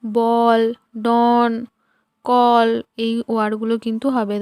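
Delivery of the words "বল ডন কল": "বল", "ডন", "কল" each said alone with an open "aw" vowel; "বল, ডন, কল" as separate model words, vowel like Bengali অ. Shown as a demonstration. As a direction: demonstrate the "aw" in "বল", "ডন", "কল". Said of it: "এর উচ্চারণ যখন অ হিসেবে হয়".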